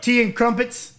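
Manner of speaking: hammy fake British accent; badly faked British English; put-on British accent. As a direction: toss it out in mock British. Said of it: "Did you put, like, an accent on".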